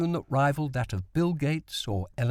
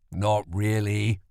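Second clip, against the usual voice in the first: gentle smile; 3 semitones lower, slower than usual. A narrator's reading. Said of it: "with a gentle smile".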